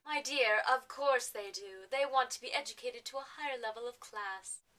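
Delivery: condescending posh lady; Poshnia. Acted. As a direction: correct her with refined superiority. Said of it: "we've gotten rid of Poshnia".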